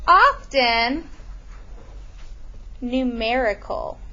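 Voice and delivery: slowed down, spelled out for note-taking; dictating pace; slow dictation. Shown as a demonstration. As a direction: say it slowly so they can write it. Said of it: "we're gonna put here".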